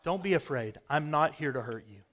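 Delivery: a touch of gentle kindness, barely shifted; kind voice. A narrator's reading. Giant bear gently calms startled person at night, mild kind voice. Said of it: "it says in a kind voice".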